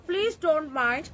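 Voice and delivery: slow, drawn-out mocking of a prim commenter; mock simpering. Mocking a live-stream commenter, slow simpering drawl. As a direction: stretch it out like a prissy snob. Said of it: "এরকম ন্যাকা ন্যাকা কথা বলে".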